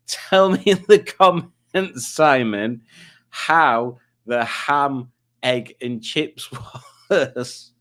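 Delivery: slow, giggling retry of "Tell me in the comments, Simon"; slowed, laughing second attempt; laughing through it. Real, not acted. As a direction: laugh your way through the H's. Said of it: "too many H's for my Yorkshire accent".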